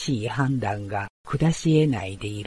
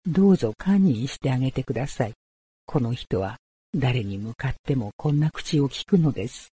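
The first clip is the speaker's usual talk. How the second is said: put-on pleading young woman; 2 semitones higher, faster than usual. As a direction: beg anxiously, rising fear. Otsu begs the samurai.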